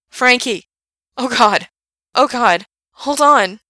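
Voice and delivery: high panicked yell; panicked shouting. A narrator's reading. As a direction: scream in terror. Frank slipping, Gerard panics.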